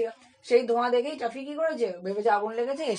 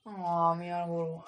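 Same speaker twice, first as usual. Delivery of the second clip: lower, softer, slow tearful demo; crying voice; 4 semitones lower, 6 dB quieter, slower than usual. Shown as a demonstration. Teacher shows a child scolded at home, crying. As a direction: show a child talking while crying. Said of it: "তুমি যখন ওই কেঁদে কেঁদে".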